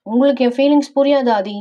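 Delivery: hurt sulking. Acted. Wife complaining to husband about her feelings, mildly sulky. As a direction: pout it out in a lifted voice.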